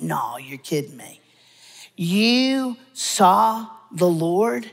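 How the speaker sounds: slow, stretched incredulous question; disbelief. Acted. Townspeople answering the shepherds, incredulous. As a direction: drag out the doubt, can't believe it.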